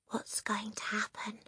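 anxious whisper; hushed, nervous question. Acted. Lavender whispering to Matilda in the silent hall. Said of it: "Lavender whispered".

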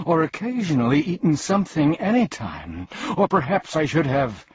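high, insistent run of second thoughts; flustered humbug. A narrator's reading. Overfed bug babbling on before collapsing, flustered.

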